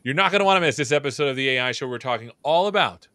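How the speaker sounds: upbeat promo announcer read; first try at the show teaser; show intro read. Shown as a demonstration. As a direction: hype the episode like a trailer. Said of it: "intro take".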